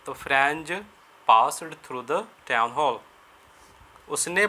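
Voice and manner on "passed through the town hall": each word spaced out, very slow; slow dictation. Shown as a demonstration. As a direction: dictate it slowly so students can write. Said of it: "slow dictation for students". (धीरे-धीरे लिखवाना)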